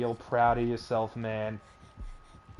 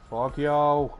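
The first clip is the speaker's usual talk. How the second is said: angry yelling; 3 semitones higher than usual. Real, not acted. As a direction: shout it out in frustration. Yelling at game killer.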